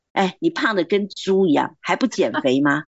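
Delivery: mildly scornful jab about her weight; a hint of a husband who insults his wife; scornful nagging. Shown as a demonstration. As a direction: needle her like a blunt, tactless husband. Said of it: "激怒就是说".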